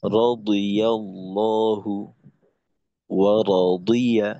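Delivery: রাদিয়াল্লাহু and রাদিয়া drawn out slowly with a thick, heavy "di"; slow, deliberate model of the emphatic ḍad in রাদিয়া. Shown as a demonstration. Teacher showing how it should sound, slow heavy ḍad. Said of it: "এরকম".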